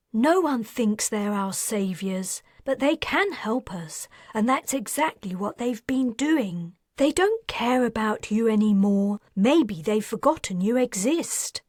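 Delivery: lightly voiced woman, impatient; scornful woman voice. Heroine voiced in dialogue.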